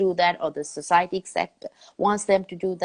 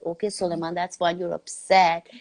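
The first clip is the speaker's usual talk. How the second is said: calm parent; 2 semitones lower than usual. Retold or imitated. Mother answering her upset little son, calm and measured. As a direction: talk it through gently, taking time.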